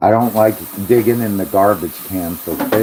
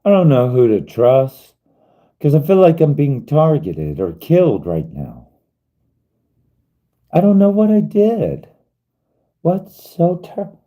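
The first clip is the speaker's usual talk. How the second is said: pleading reply; 8 semitones higher, 3 dB louder than usual. Pretend. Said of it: "Be like".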